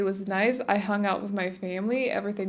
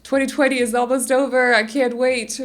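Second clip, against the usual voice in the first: excited gushing; 3 semitones higher, 7 dB louder than usual. Retold or imitated. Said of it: "I just read a lot of".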